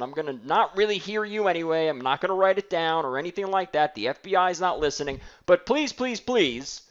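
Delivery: mock nervous, over-apologetic salesperson; lightly voiced fumbling salesman; pleading salesperson. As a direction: beg and ramble like a timid caller. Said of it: "you're acting like an idiot".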